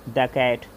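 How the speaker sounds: the said as də, slow and drawn out. Shown as a demonstration. Teacher showing the as də. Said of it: "उसे द पढ़ा जाता है".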